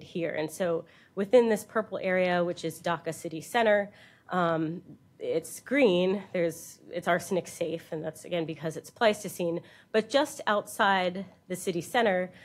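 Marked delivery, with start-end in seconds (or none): none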